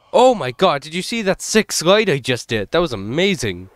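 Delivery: breathless thrill after escape; hyped after a close call; adrenaline rush. Real, not acted. Pulls off slide escaping monster.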